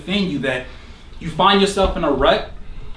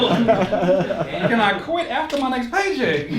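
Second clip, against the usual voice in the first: laughing; 5 semitones higher, much slower than usual. Retold or imitated. Timid worker asks, laughing.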